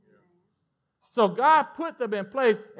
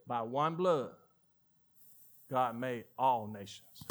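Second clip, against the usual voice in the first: "By one blood, God made all nations" softer and lower, slow; quiet repeat; 9 semitones lower, 10 dB quieter, slower than usual. Acted. Preacher quietly repeats the verse to close the point. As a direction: bring the verse down to a hush.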